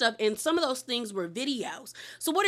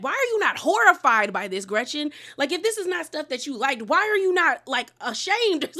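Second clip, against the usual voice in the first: imitating an appalled friend; upset; 3 semitones higher than usual. Heather pressing Gretchen, mildly outraged. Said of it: "Heather was upset".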